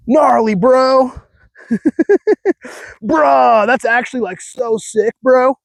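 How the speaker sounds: high, slow surfer-bro voice; California surfer bro. Shown as a demonstration. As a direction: ham up a stoked California surfer. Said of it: "stupid way that I speak".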